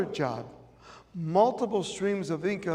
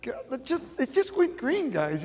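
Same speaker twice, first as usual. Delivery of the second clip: impatient driver; 7 semitones higher than usual. Retold or imitated. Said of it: "I'm like".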